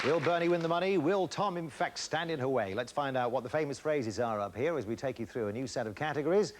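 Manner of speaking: upbeat host announcing over music; game show announcer. Acted. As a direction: build up the next round like a TV host.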